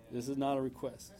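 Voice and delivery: low, quiet, firm command; soft, grave divine statement; hushed repeat. Acted. God's command repeated more softly.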